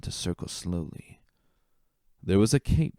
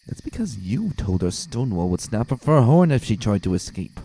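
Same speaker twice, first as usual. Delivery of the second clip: snippy; 3 semitones higher, 4 dB louder than usual. Acted. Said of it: "Nightwind snipped".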